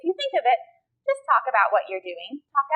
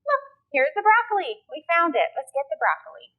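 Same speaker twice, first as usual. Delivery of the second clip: lightly animated, higher-pitched parent talk; parent talking to baby; 4 semitones higher than usual. Shown as a demonstration. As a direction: point things out brightly for a baby. Parent talking to baby while shopping.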